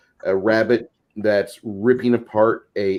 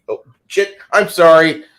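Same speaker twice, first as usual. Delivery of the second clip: sudden high "oh shit", then a much louder "I'm sorry"; mock startled apology; 7 semitones higher, 9 dB louder than usual. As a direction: catch yourself mid-rant and fake an apology. Mock apology after ranting about Dragonborn.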